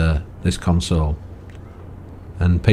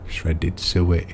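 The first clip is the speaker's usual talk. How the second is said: "Shredded suet" echoed softly through a chuckle; laughing repeat; 5 dB quieter than usual. Real, not acted. Amused at an old-fashioned game poster, laughing.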